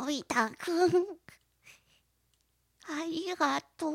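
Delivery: dying Doraemon. Retold or imitated. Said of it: "どこのおばあちゃんや".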